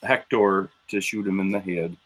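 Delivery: a hint of a Southern accent. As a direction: say it like a Southern gun-lover, half-joking. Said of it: "why did you say that with a Southern accent?".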